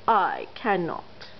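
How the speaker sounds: slow, fading mild chug; chugging. Acted. Old engine rumbling off, chugging slowly. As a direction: chug it away.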